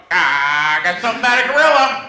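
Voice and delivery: a lightly played flustered negotiator; flustered bluff. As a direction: blurt it out fast, caught unprepared. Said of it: "I'm sitting there going".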